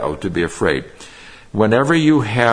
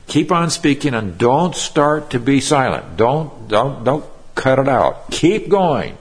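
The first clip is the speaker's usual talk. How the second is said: raised, urging repeated "don't", climbing to "Keep going"; strong emphasis; 5 semitones higher than usual. Shown as a demonstration. Preacher urging Paul on for the congregation, mounting emphatic push. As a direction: press each "don't" like an insistent command. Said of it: "The emphasis is very, very strong".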